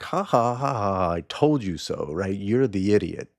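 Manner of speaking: acted triumphant "ha ha" taunt; happy gloating. Donkey passing the tiger after seeing the lion, happily gloating. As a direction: lightly crow over winning. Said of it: "donkey goes off just so happy".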